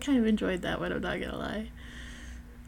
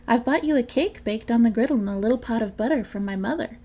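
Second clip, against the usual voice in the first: wolf in disguise; 3 semitones higher, 4 dB louder than usual. Acted. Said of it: "disguising his voice".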